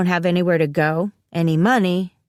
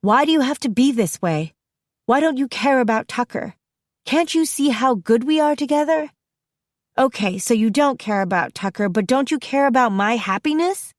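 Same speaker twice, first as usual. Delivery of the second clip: screaming; 7 semitones higher than usual. A narrator's reading. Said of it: "I start screaming".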